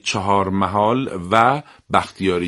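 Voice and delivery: "و" said in full, marking two places; two separate names. Shown as a demonstration. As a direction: sound "و" as a full "va" between "محال" and "بختیاری". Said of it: "یعنی دو تا".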